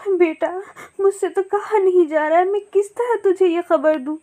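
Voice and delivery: choking on bad news for the child; mildly tearful parrot aunt; grieving aunt. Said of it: "रोने लगती है".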